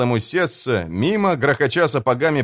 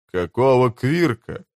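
gasped. Acted. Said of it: "охнул инженер".

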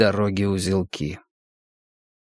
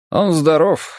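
голос монаха; 8 semitones higher, 4 dB louder than usual. Acted. Монах отвечает.

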